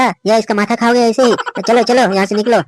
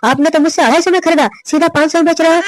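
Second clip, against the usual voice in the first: हैरान होकर डांट; 5 semitones higher than usual. Acted. दद्दू के दाम पर चौंककर डांटना.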